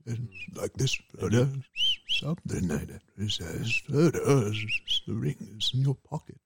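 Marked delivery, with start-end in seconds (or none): 0.1-3.0 Gandalf with a whistled s; whistling s. Shown as a demonstration. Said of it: "he has a slight whistle when he says his S's". 3.9-6.4 slow Gandalf with whistled s; whistling s. Shown as a demonstration. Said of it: "he has a slight whistle when he says his S's".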